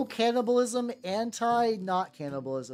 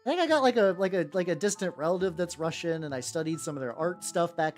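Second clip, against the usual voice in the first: imitating Ito. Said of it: "He's like".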